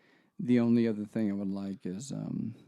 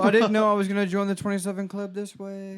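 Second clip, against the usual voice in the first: mock panicked astronaut; 8 semitones higher, 6 dB louder than usual. Mock dying astronaut line.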